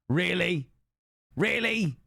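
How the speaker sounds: high, incredulous "Really?"; mock disbelief. Real, not acted. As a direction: play up the disbelief at chat. Streamer reacts to chat disbelief.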